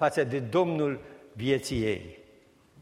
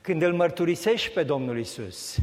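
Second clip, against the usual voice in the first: ordinary talk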